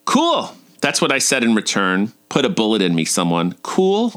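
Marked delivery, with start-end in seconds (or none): 0.0-0.6 very high, blurted reply; awkward squeal. Retold or imitated. Face to face with Sebastiano, awkward high blurt. Acting her own embarrassing reply. 3.6-4.1 high, questioning echo; incredulous repeat. Retold or imitated. Cringing at her own reply to Sebastiano, incredulous rising echo.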